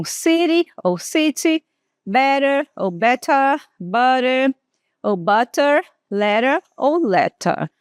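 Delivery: each word twice, flapped then crisp T; two Ts; flap and clear T. Shown as a demonstration. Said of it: "São duas formas aqui diferentes".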